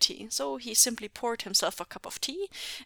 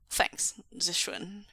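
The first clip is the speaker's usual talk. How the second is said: whispered thanks; slower than usual. Acted. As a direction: breathe the thanks. Quiet thanks.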